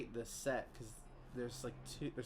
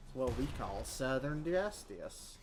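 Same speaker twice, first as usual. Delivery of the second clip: bad Southern accent. Player announcing a shotgun kill, bad Southern accent. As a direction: put on a half-hearted Southern twang. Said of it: "my worst Southern accent ever".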